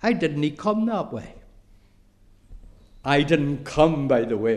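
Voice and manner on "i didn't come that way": a lightly voiced little girl, a touch higher; timid young lassie answering the elders. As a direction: answer shyly and politely, like a little girl curtsying. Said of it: "she curtsied and she said".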